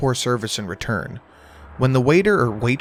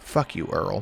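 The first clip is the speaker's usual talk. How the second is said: mock deadpan, low, flat, toneless monotone; 5 semitones lower, 7 dB quieter than usual. The deputy replies to earl in front of the bar regulars, as monotone as possible. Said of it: "I said back as monotone as possible".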